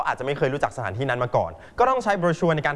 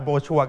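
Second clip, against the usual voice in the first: "brochure" as bro-SHURE, second syllable stressed; American stress on second syllable. Shown as a demonstration. Teacher recaps the American reading, "brochure" stressed on SHURE. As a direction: put the weight on SHURE in "brochure". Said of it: "อเมริกานะครับ brochure ก็คือ".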